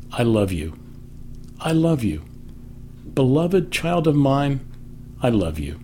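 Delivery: soft tender murmur of love; gentle loving whisper. Pretend. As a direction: speak it like a father murmuring to a child. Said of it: "God is whispering your name".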